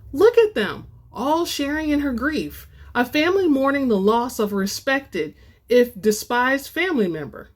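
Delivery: lightly voiced tempter, coaxing; cajoling companion. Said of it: "the voice a little more cajoling".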